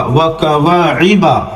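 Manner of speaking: slow, stretch the alif; slow drawn-out reading. Shown as a demonstration. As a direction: read it slowly, drawing out the long vowel. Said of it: "الف داخل ہے تو تھوڑا سا کھینچا جائے گا". (آہستہ، الف کھینچ کر)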